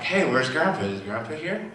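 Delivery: high, eager excited questions; all excited. Retold or imitated. Excited child asks mom where Grandpa is, eagerly. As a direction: re-enact a child's excitement, pitch jumping up. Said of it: "I'm, like, all excited".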